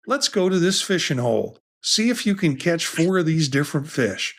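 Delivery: a hint of folksy Southern US accent. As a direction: voice the fishing app with a light Southern twang. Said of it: "I'm saying it with a Southern accent".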